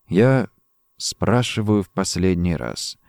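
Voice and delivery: low, measured threat; final warning. A narrator's reading. Drongo questions Rossetti at gunpoint, low and final. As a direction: drop the voice, menacingly controlled.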